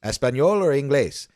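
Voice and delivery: hint of a little street seller's opener; imitating kid's sales pitch. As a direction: imitate a boy's practiced pitch. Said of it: "He starts it off and he says".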